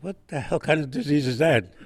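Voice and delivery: hammed-up sergeant, laughing; laughing mock sergeant. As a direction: quote through a laugh. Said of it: "he said".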